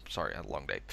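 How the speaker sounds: low, soft weary aside; drained and tired. Real, not acted. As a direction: sigh it out, worn down after a long day. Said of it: "it's getting late".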